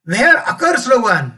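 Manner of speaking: a touch of a mother's anger; angry mother, mildly voiced. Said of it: "राग येणार ना". (हलक्या रागात ओरडणारी आई)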